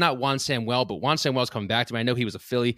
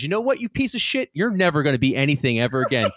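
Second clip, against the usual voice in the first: dad's retort; faster than usual. Retold or imitated. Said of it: "And my dad goes".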